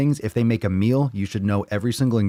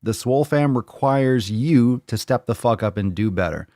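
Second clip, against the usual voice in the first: higher-pitched, emphatic call-out; mock call-out; 4 semitones higher, 3 dB louder than usual. Coach calling out a slacking member, mock outrage. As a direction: challenge them to step up. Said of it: "And I'm like".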